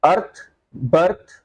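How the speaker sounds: slow teacher demo of th words; th sound. Shown as a demonstration. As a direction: stretch the th in अर्थ and बर्थ. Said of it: "इथ होता है थ का sound".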